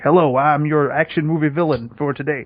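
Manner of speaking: lightly mock a bad Southern accent; cheesy action villain with a Southern twang; terrible Southern accent. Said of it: "got this terrible Southern accent".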